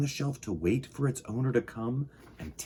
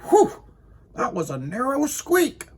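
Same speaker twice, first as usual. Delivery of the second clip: high loud whew; startled relief; 13 semitones higher, 5 dB louder than usual. Acted. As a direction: gasp out the relief after the near miss. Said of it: "he said".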